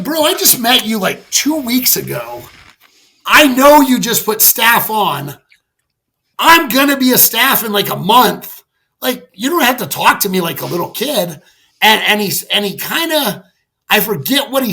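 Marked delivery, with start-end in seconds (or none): 0.0-11.4 retold indignant protest, pitched up at first; indignant comeback. Airman arguing back at his new supervisor, indignant. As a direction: push back at him, mock exasperated.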